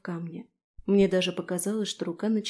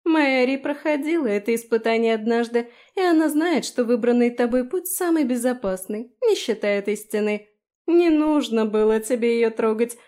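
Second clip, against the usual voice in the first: higher, louder mocking gloat; 3 semitones higher, 5 dB louder than usual. Felicia mocks trapped Daphne, gloating. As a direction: gloat over the trap.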